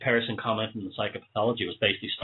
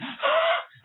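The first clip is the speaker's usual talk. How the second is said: sharp wheezy intake of breath; wheezing gasp; 4 dB louder than usual. Real, not acted. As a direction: asthmatic gasp for air. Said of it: "you hear that wheezing at the end".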